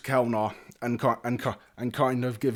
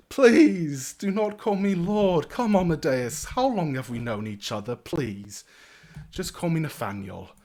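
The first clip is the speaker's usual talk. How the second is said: slow, drawn-out plea easing down to casual; chummy young lord; 4 semitones higher, 4 dB louder, slower than usual. Acted. Young lord begs his knight to drop the title, chummy. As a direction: start high and loud, then settle.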